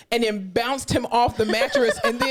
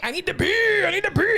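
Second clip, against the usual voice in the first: whiny patient; 9 semitones higher than usual. Retold or imitated. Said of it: "he kept saying".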